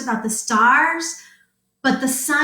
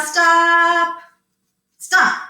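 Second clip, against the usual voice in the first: mock yell; 6 semitones higher, 5 dB louder than usual. Shown as a demonstration. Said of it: "you guys just yell "stop".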